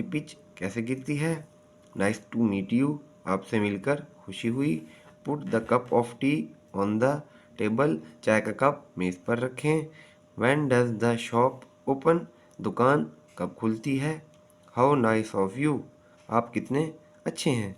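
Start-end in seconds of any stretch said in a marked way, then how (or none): 1.9-3.0 slow, with you settling down; falling tune. Shown as a demonstration. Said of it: "Falling intonation". 5.3-8.0 slow statement sinking on table; falling tune. Shown as a demonstration. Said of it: "Falling intonation". 10.4-12.2 slow question falling on open; falling tune. Shown as a demonstration. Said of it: "Falling intonation". 14.8-15.8 slow, you dropping at the end; falling tune. Shown as a demonstration. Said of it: "Falling intonation".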